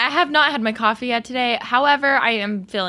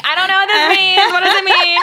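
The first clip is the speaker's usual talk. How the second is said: clueless younger self; 8 semitones higher, 6 dB louder than usual. Retold or imitated. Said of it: "would have been like".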